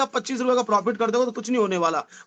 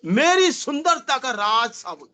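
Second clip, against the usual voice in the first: ad line quote; slower than usual. Retold or imitated. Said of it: "वो dialogue है यार".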